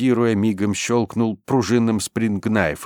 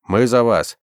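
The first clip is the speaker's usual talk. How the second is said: raised, higher call; guttural cry; 5 semitones higher, 5 dB louder than usual. A narrator's reading. Rescuer calling to frightened Russians, guttural cry. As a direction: call out across the hall. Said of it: "пронёсся гортанный крик".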